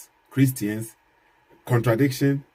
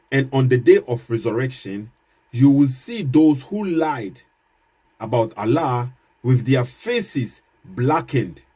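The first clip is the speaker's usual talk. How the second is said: slow scripture reading; slower than usual. Shown as a demonstration. Reads Quran verse aloud.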